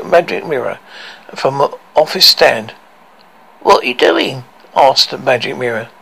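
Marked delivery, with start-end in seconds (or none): 3.6-4.4 high, frightened trembling question. Acted. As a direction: quaver with fear. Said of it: "Its voice trembling".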